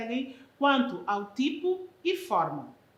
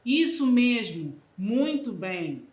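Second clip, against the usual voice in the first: approving cheer; 5 dB louder, slower than usual. Shown as a demonstration. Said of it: "Locuções interjetivas".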